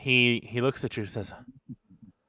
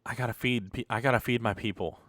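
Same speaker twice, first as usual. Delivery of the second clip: a slightly hushed, softer admission; subdued thief's reply; 6 dB quieter, faster than usual. Acted. Caught thief explaining himself to his captor, subdued. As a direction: answer quietly, as if owning up.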